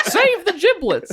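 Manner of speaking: pitched way up, belted. Joking about putting giblets in a Guinness can: Julia Child impression. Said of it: "That's my Julia Child impression".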